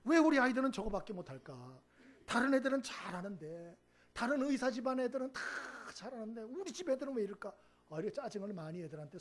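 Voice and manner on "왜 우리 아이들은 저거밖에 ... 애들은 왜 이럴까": irritated mother. Retold or imitated. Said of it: "짜증이 많아서".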